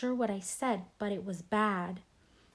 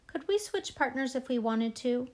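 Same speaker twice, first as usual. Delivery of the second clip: fake innocent; 4 semitones higher than usual. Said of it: "looking very innocent".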